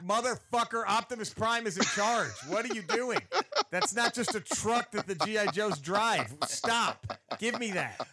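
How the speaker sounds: loud mock rant at a grown-up playing wrong; mock angry kid. Kid scolding someone who misuses his toys, mock angry.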